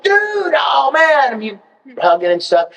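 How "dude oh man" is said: high, drawn-out mock shout; excited greeting. Actor greeting colleagues he feels are friends, excited shout. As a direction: hail a long-lost buddy, pitched way up. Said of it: "I would see them like".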